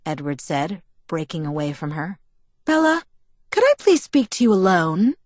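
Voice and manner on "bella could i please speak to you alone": higher-pitched, urgent ask; swift request. A narrator's reading. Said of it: "Alice asked swiftly".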